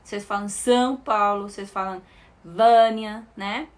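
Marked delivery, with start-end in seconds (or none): 0.5-1.5 nasal "ão" in São; nasal vowel. Shown as a demonstration. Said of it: "ou um som nasal". 2.4-3.3 nasal first "a" in Vânia, said louder; nasal vowel. Shown as a demonstration. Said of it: "ou um som nasal".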